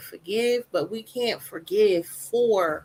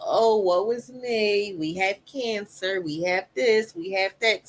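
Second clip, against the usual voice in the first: mock self-pity; slower than usual. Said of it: "I had to go from".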